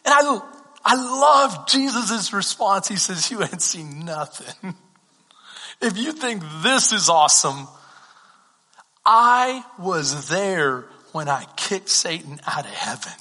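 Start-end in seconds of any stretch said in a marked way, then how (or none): 3.3-13.1 Jesus' reply. Retold or imitated. Pastor voices Jesus answering disciples.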